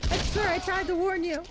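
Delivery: giggling sorry to the poor NPC; laughing apology. Real, not acted.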